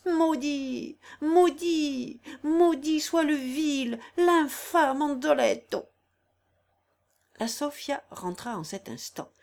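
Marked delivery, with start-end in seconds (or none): 0.1-5.9 building roar, higher and louder, slow; roaring curse. Acted. Corilla clutching Consuelo's arm, roaring curses. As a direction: roar each maudit harder. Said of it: "elle s'écria en rugissant".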